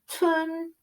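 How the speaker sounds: TUN pitched high and rising; second tone. Shown as a demonstration. Teacher showing the second tone, TUN high and going up. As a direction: lift TUN upward like a question. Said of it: "the second tone goes up".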